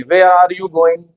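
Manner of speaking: very slow, deliberate British English accent. Shown as a demonstration. Teacher showing students how Indians say it, in a slow British English accent. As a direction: stretch out "Where are you going?" in a careful British English accent. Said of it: "हम ऐसे बोलेंगे".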